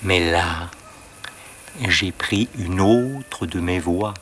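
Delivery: talking while holding breath. Acted. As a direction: speak with the breath held in. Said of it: "Je parle en retenant mon souffle".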